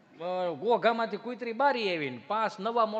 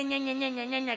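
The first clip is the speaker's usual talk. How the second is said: whiny kid mimic; 4 semitones higher, faster than usual. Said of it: "ઈ પાછું ઈ ન્યા".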